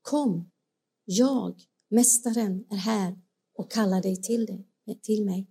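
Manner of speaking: a lightly voiced whisper of Jesus. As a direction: call gently from close by. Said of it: "när han viskar till dig".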